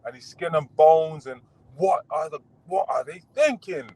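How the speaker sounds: lightly mimicked critic, pitch lifted; mock dismissive. Boxer quoting the commentator who wrote him off, mock dismissive.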